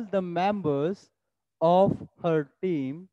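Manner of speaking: very slow word-by-word dictation. Shown as a demonstration. Teacher dictates sentence to copy, extremely slow. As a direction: pause between each word for students to write. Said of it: "उतारना एक बार मेरे साथ आप लोग".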